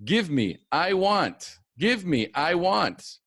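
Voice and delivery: put-on high, pushy little child voice; lightly voiced baby wanting things; mock baby demands. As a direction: whine it out like a toddler grabbing. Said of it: "when we're babies".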